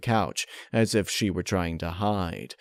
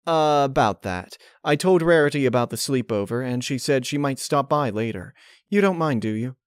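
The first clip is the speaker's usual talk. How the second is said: higher, hesitant pony voice; nervous character voice; 6 semitones higher than usual. Acted. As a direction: nervously test the waters. Applejack nervously explains.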